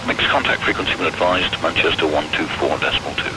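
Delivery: over a pilot headset. Real, not acted. Controller heard over pilot radio.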